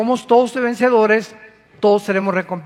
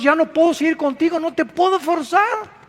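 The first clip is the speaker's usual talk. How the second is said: voicing God; 7 semitones higher than usual. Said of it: "dice Dios".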